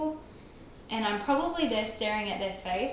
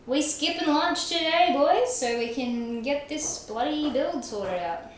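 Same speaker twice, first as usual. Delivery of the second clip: put-on higher, louder rally to the boys; rallying call; 5 semitones higher, 4 dB louder than usual. Streamer rallying chat to skip lunch, excited call. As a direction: pump up the chat about skipping lunch.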